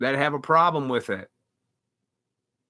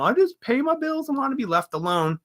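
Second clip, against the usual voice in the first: mocking passive people; 9 semitones higher than usual. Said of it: "uh, you know".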